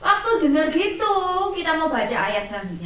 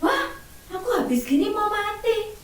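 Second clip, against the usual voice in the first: higher, startled voice for the king's shock; 8 semitones higher than usual. Retold or imitated. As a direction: gasp it out as the stunned king. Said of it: "Raja Hizkianya kaget".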